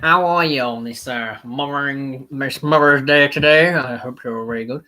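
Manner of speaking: hammed-up Howdy-partner American accent; atrocious American accent. Greeting viewers for Mother's Day in an atrocious American accent. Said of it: "that was an atrocious accent".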